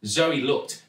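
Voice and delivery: ordinary delivery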